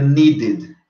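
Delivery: "needed" in two syllables, nee-did. Shown as a demonstration. Teacher gives another example, "needed" said nee-did. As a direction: sound the full last syllable of "needed". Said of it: "como se fosse um I D".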